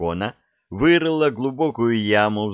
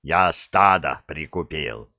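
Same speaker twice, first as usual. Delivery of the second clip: slow, lower breathless huff; a touch of effortful puffing; 4 semitones lower than usual. Acted. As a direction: pant it out while straining. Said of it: "пропыхтел дракон".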